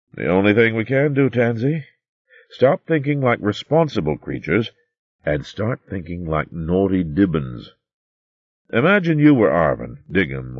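lightly voiced wise old hare; kindly old recorder. Old recorder advises Tansy.

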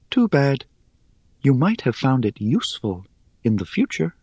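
high, airy, teasing spider; airy little voice. Acted. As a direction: toss it off lightly, amused.

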